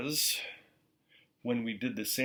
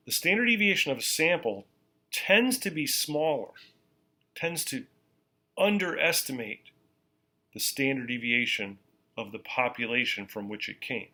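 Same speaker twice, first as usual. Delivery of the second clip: even slower, each phrase set apart; more slowly. Shown as a demonstration. Teacher repeating for note-takers, slower still. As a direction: give them time to write every word. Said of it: "I'll say it more slowly".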